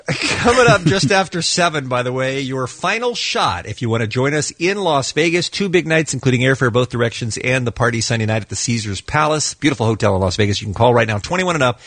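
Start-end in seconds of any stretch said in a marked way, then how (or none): 0.1-7.6 radio promo read. Acted.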